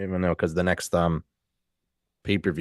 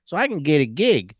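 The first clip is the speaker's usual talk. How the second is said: MJF impression; 9 semitones higher than usual. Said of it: "M J F is like".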